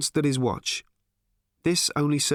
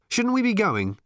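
sudden; 11 semitones higher than usual. Acted. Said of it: "he said suddenly".

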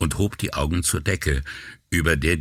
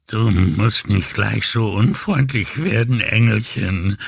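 whining; 5 semitones higher, 3 dB louder than usual. Acted. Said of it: "jammerte er".

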